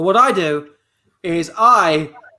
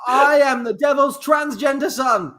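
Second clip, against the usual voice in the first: triumphant shout; 5 semitones higher than usual. Real, not acted. The employee proudly shouting the guess at the boss. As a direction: declare the answer like a win.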